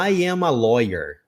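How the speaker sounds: slow, careful book English "I am a lawyer"; textbook sentence. Shown as a demonstration. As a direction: read "I am a lawyer" slowly, word by word. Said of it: "no livro lá tava assim". (frase do livro, devagar)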